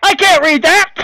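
high loud outburst; loud exclamation. Real, not acted. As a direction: blurt it out loud. Player balks at French text.

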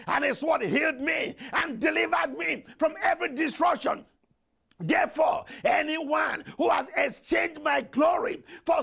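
shouted, driving prayer chant; full-force prayer. Acted. Preacher leading congregation against stealers of glory, full-force shouted prayer. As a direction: hammer out each decree in relentless, punchy repeats. Leads fervent warfare prayer.

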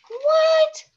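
high squeaky startled what; surprised what. Acted. Surprised reader voicing Charlie.

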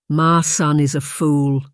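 slow, heavy, sighed-out judgement; weary sigh. Acted. Ife, disappointed in Blair, sighs his verdict. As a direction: let it out on a tired sigh. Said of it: "Ife sighed".

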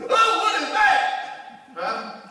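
hammed-up baffled gawking; mock bewildered surprise. Preacher mocking people who ignore the start line, high and puzzled. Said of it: "most of us would go".

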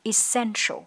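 ESSENTIAL with a heavy sh; heavy sh sound. Shown as a demonstration. Teacher models the word, heavy sh in ESSENTIAL. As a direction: say "essential", weight on the sh. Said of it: "chúng ta sẽ có âm sần nặng".

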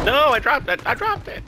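high, loud panicked yell; real gaming panic, pitch shooting up; panicked shout. Real, not acted. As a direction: cry out in alarm over the drop.

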